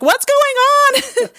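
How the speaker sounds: high, loud retold cry of bewilderment; mock-shocked high yelp; bewildered. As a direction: blurt it out baffled, pitch shooting up. Bewildered, asking adopted mom what's happening.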